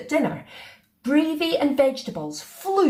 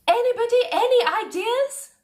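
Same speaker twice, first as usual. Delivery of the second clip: high, loud royal appeal; a queen at a loss; exasperated Queen; 12 semitones higher, 3 dB louder than usual. A narrator's reading. Queen asking the room for ideas, exasperated.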